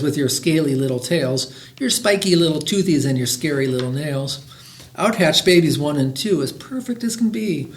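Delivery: lively, rhythmic read-aloud; children's story reading. A narrator's reading. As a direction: read a rhyming picture book to listeners. Reads a picture book aloud.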